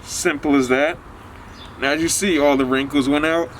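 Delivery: talking through a face covering; muffled through wet shirt. Real, not acted. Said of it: "Sorry if I sound a little muffled".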